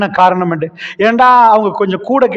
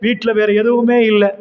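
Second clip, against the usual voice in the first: usual speaking voice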